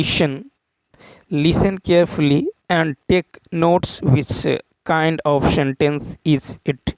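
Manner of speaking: slow, drawn-out reading of an English exam question; deliberate dictation pace. Acted. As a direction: read the question word by word, very slowly. Reads English question slowly.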